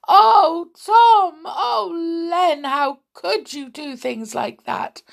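high, loud wail that subsides; wailing mothers. A narrator's reading. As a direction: cry out in dismay, then fall away. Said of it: "wailed their mothers".

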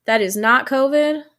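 head cold, blocked nose; stuffy nose. Real, not acted. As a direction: talk through a stuffy cold. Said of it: "I am experiencing a bit of a head cold situation".

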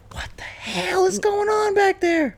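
hushed annoyed whisper. Real, not acted. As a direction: whisper it off to the side. Whispers at noise in the house.

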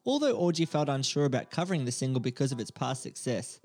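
reading a script cold, a bit halting; sight-reading a report aloud; first-time read-through. Real, not acted. Host reads a paid Fiverr intro to his co-host, sight-reading. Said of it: "very endearing hearing you read for the first time".

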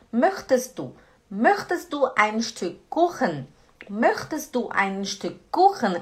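"möchtest du" joined as "möchtes-du"; flowing question, no final t in "möchtest"; linked, silent t. Shown as a demonstration. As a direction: run "möchtest du" together smoothly. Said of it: "O T a gente não pronuncia ele".

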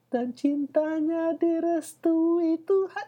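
high, slow mocking croon; mock sappy lyric. Mocking the band's lyrics in a sappy high croon. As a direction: hold each word like a cheesy ballad.

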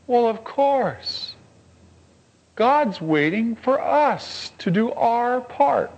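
sudden idea. Retold or imitated. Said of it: "it dawns on them".

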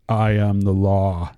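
slow, gravelly lawman line; Judge Dredd voice. Retold or imitated. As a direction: deliver it slow and grim. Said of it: "a famous Judge Dredd line".

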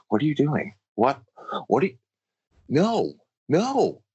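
high-pitched, disbelieving objection; incredulous protest. Retold or imitated. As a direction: sputter in disbelief, then squeal out the refusals. Acted incredulous objection to reopening.

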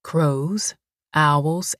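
low, gentle, unhurried listing; calm listing. Acted. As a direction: answer her fear calmly. Greasy calmly repeats list.

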